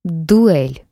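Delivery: loud growled challenge; growling dog voice. Acted. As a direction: growl the word like a beast. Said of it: "прорычал он". (рычащий вызов)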